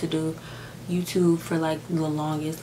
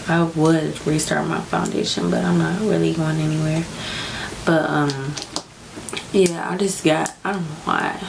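real crying. Real, not acted. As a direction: speak while really crying, pushing through. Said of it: "why I'm crying right now".

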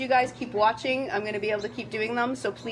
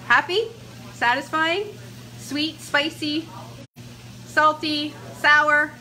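higher, louder, eager questions; excited quizzing; 6 semitones higher, 4 dB louder, slower than usual. Real, not acted. Host quizzing her tasting friend, eager and high. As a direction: pepper him with eager questions.

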